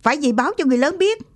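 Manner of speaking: put-on boy yelling that they must tell the adults; mock shout. A narrator's reading. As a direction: blurt it out fast and urgent. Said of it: "Thằng Tí hét lên".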